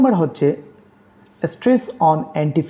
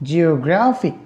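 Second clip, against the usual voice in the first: জিওগ্রাফিক as geo-GRA-phic, GRA raised; stress on penultimate syllable; slower than usual. Shown as a demonstration. Teacher explaining the penultimate rule, GRA in জিওগ্রাফিক stressed. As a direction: lift and lengthen GRA in জিওগ্রাফিক. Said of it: "stress on penultimate syllable".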